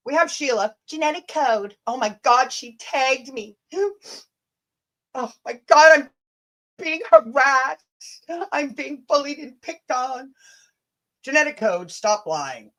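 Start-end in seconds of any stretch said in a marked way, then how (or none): 1.9-3.6 mock dismay. Mocking Sheila's harassment claims with hammed-up dismay. 3.7-4.2 big hammed-up gasp, high; mock gasp. Pretending to be Sheila, a staged shocked gasp. Mocking Sheila's claim of harassment. 5.1-10.3 higher, sarcastic mock horror; mock dismay. Mocking Sheila's harassment claims with hammed-up dismay.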